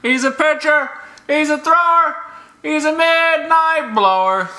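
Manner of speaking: sing-song high mock announcer; high silly voice. Shown as a demonstration. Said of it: "repeated in other voice".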